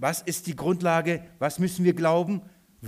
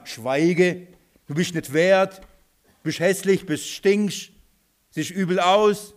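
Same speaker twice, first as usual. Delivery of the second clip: loud, raised-pitch list of put-downs; scornful rejection; 4 semitones higher, 5 dB louder than usual. Acted. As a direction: act out a dismissive crowd, pushing him away. Acted scornful crowd rejecting the blind man. (verächtlich abweisend)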